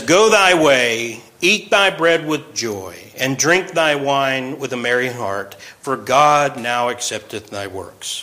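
slow, solemn scripture reading. Acted. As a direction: read the verse slowly, reverently.

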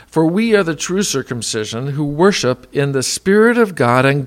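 loud, emphatic Bible reading; scripture reading. Acted. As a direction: proclaim the verses with force. Reads Scripture aloud with force.

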